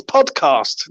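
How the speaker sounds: hushed, breathy voice, no tone at all; whisper. Real, not acted. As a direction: whisper it like a secret reveal. Whispers the key word.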